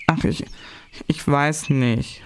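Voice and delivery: put-on slow, hesitant boy; unsure. Christian unsure how to answer his siblings, slow. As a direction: falter and stall over the words. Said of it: "sagte Christian unsicher".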